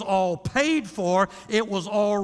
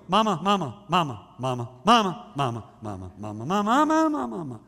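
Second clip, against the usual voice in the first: put-on whining child; 2 semitones lower, faster than usual. Child nagging mother.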